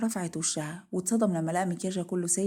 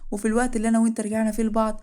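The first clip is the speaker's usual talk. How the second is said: hurt reproach; 3 semitones higher, 6 dB louder, faster than usual. Acted. Wife reproaches husband for betrayal.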